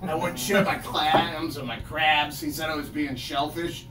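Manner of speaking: a hint of a glum, grumpy elf; mopey elf just fired by Santa; lightly voiced Cranky the Christmas Elf. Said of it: "a character called Cranky the Christmas Elf".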